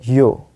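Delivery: "यो" with no r at the end; silent r. Shown as a demonstration. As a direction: say "यो" ending on the open vowel. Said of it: "इसको बोलते हैं यो".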